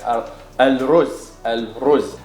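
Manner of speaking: al-ruz slowly, standard form; Modern Standard Arabic. Shown as a demonstration. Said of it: "in the modern standard Arabic".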